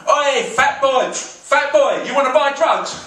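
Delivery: high, slow mock thug shout; street thug. Thug calling to the comic on the street, mock rough shout. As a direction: call out like a street dealer. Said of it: "approached by a thug".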